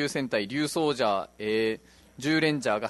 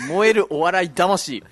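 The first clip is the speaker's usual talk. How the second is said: dramatic slow declaration; 2 semitones higher, 6 dB louder, much slower than usual. Acted. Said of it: "どっからそのテンションで読んでいいかわからなくて".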